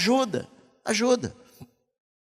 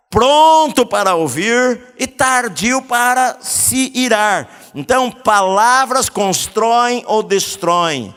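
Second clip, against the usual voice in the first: louder, slow, emphatic pulpit preaching; preaching at full force; 6 semitones higher, 5 dB louder, slower than usual. Acted. Pastor exhorting couples from the pulpit, loud slow preaching. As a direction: drive each verse home to the church.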